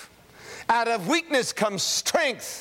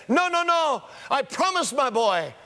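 desperate father refusing; 6 semitones higher than usual. Retold or imitated. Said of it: "they said".

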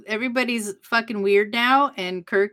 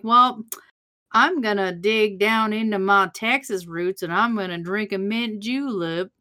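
mock Texas drawl. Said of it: "Like a thick Southern drawl".

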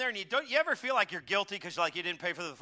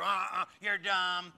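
scolding machine; slower than usual. Retold or imitated. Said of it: "like in lead, red letter".

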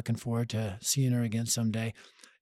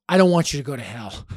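louder, higher urgent plea; blunt plea; 3 semitones higher, 10 dB louder than usual. Retold or imitated. Teen son pleading with his mom, loud and urgent. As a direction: stop beating around the bush. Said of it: "I go".

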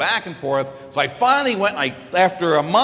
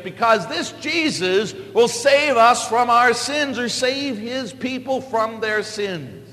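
the angel speaking, higher and slow; angel's message; 5 semitones higher, slower than usual. Acted. Preacher voicing the angel to Joseph, higher and slow. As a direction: announce it to Joseph like a heavenly messenger.

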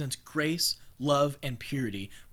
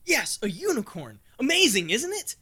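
high, loud gushing praise; fervent gushing; 7 semitones higher, 4 dB louder than usual. Acted. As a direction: beam with devotion.

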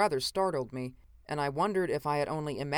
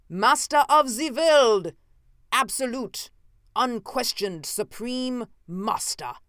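rising to a slow, much higher, far louder roar on Master of the world; a madman proclaiming himself master, building to a full shout; madman's slow, loud triumphant shouting; near shout; 6 semitones higher, 5 dB louder than usual. A narrator's reading. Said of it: "fairly shouting now".

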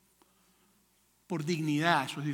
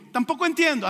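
confused stranger; 7 semitones higher, 3 dB louder than usual. Retold or imitated. English speaker fails to understand.

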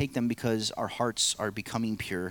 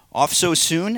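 angel's question; 7 semitones higher, 7 dB louder than usual. Acted. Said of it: "asked a voice".

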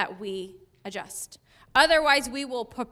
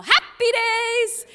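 higher, louder, slow cheerful cry; mock yell; 11 semitones higher, 7 dB louder, much slower than usual. Family after a spill, slow cheerful yell. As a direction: call it out to lift the mood. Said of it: "they would pause and yell".

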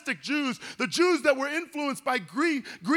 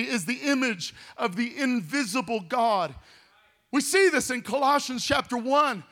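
usual speaking voice

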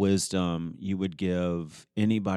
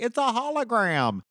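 high character voice. Retold or imitated. Acted improv line, high voice.

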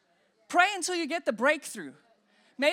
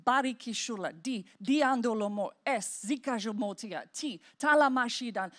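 tongues syllables demo; 3 semitones lower than usual. Shown as a demonstration. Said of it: "So I'm like".

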